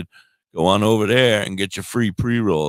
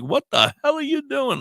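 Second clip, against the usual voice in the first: imitating the wife. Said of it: "my wife's like".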